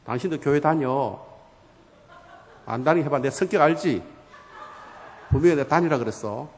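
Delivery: low, controlled annoyance; acted marital ultimatum, mildly angry; threatening wife. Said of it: "막 화를 내고".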